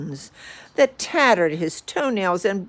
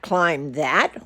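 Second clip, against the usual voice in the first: gulping dismay; 2 semitones lower than usual. Acted. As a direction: echo the order back in disbelief. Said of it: "Horton gulped".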